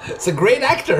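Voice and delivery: chuckling through the words; amused laugh while speaking. Real, not acted. Laughing at the show's acting.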